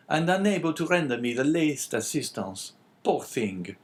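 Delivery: high eager innkeeper voice. A narrator's reading. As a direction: answer like a surprised servile host. Innkeeper voice in story.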